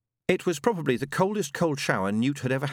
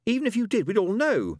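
higher, louder, quick protest; eager objection; 12 semitones higher, 4 dB louder than usual. Acted. Pepper objecting to Adam, quick and higher. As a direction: jump in to object.

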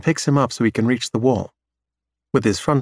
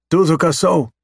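high, louder alien voice; 6 semitones higher, 4 dB louder than usual. Acted. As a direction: alien repeating its word firmly. Alien says it.

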